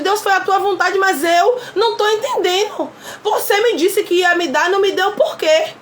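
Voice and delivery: a light take on an honest, confused prayer; honest plea. Shown as a demonstration. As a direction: open up and ask God why. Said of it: "Ei, fala de verdade".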